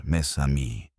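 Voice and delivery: a light touch of Poirot's French; French accent. Acted. Poirot to the gathered suspects, lightly French-accented. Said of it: "his accented voice".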